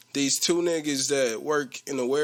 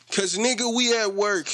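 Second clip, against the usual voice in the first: raised pitch, mock exasperation; exasperated retort; 5 semitones higher than usual. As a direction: retell it as a pointed, higher comeback. Acted retort to the coworker.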